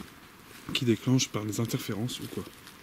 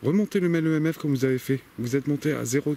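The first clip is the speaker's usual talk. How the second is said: raised pleading call; 3 semitones higher, 5 dB louder than usual. Real, not acted. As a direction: call loudly into the woods. Calling out to spirits. (appel insistant)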